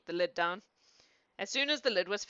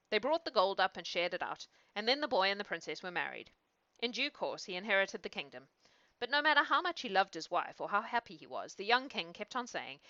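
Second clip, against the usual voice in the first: measured fairy-tale reading; storyteller's narration; story narration. A narrator's reading. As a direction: read it aloud as a bedtime tale. Reads a fairy tale aloud.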